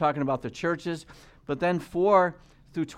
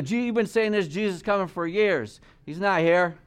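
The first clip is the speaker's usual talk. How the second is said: higher, mocking scoffer's voice; imitating a scoffer who mocks the promise; 4 semitones higher, 3 dB louder than usual. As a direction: sneer at the promise like a doubter. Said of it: "as some men count slackness".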